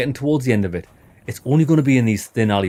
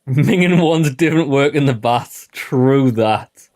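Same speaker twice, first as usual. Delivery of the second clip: slow, loud mimicry of a North East English accent; 2 semitones higher, 5 dB louder, slower than usual. Player parroting a tavern local's line, mock North East English accent. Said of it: "This guy's got four different accents".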